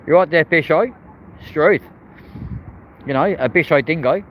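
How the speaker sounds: badly faked Australian accent. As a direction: put on a jokey, hammy Australian accent. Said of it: "my really bad attempt at an Australian accent".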